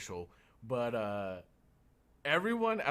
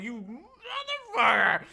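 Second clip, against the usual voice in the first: loud, higher laughing yell; mock outburst; 14 semitones higher, 10 dB louder than usual. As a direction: blow up in mock fury. Retold outburst at rental clerk.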